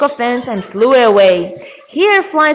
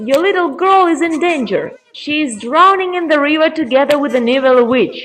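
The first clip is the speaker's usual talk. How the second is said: quick, higher-pitched warning; urgent news; 4 semitones higher, faster than usual. Acted. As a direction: rattle out the danger to grandpa. Raven finally delivers urgent news.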